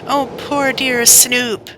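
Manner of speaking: put-on slow, high little girl's lament; despairing. Little girl grieving for her dangling kitten, slow high despair. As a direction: wring the words out in despair. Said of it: "she wrung her hands in despair".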